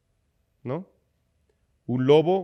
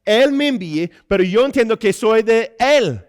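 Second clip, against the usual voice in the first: raised, emphatic sermon voice; emphatic preaching; 7 semitones higher, 6 dB louder than usual. Acted. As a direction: preach it with conviction, landing on key words.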